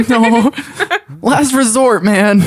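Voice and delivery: high, laughing refusal. Acted. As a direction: laugh it off, shaking head. Shakes head, laughing no.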